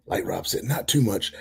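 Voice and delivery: raspy, failing voice; hoarse voice. Real, not acted. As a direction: talk through a sore throat. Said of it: "you're losing your voice".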